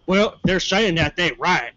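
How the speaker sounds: imitated cop. Cop confronting two suspects, slow imitation. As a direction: drag it out like a cop. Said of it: "the cop is like".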